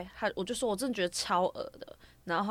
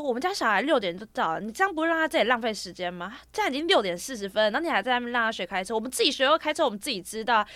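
mother scolding staff, a bit louder; retold angry mom; 3 semitones higher, 3 dB louder than usual. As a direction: press the complaint firmly. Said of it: "他就整个很火大".

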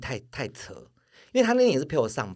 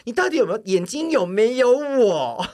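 retold angry outburst; 6 semitones higher, 5 dB louder than usual. Boyfriend demanding whether she loves him, mock upset and rising. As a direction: replay the boyfriend's hurt demand, building up. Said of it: "然后整个跟我很生气".

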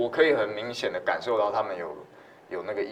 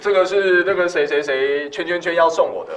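mock evidence statement; 7 semitones higher, 9 dB louder than usual. Acting out recording gift evidence.

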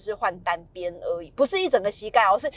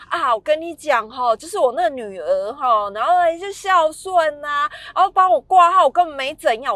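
higher, louder mock-chatty mom voice; rambling mom; 6 semitones higher, 5 dB louder than usual. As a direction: play the mom who won't get to the point. 模仿妈妈离题絮叨. (模仿妈妈高声絮叨跑题)

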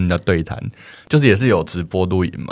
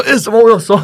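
mock shock; 13 semitones higher, 5 dB louder than usual. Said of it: "我就".

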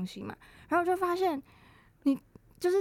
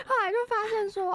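voice cracking; 11 semitones higher than usual. Real, not acted. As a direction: voice breaks mid-phrase. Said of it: "我就是刚破音".

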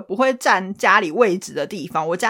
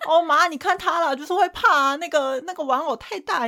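a light, higher whiny puppy voice to his mom; puppy-dog tone; 6 semitones higher than usual. Retold or imitated. Husband imitated pleading sweetly to his mother, a touch higher. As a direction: lightly play the husband sucking up like a little dog. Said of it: "变成小狗的口气".

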